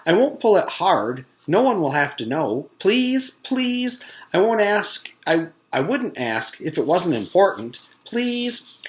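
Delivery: high, whiny pleading; boy begging a classmate, high and whiny. Acted. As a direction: beg over and over. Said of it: "Paul begged".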